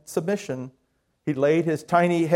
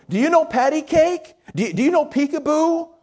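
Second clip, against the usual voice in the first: higher, louder call across a room; shouting across room; 11 semitones higher, 3 dB louder than usual. A narrator's reading. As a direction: call out to the baby from afar. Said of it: "began shouting across the room".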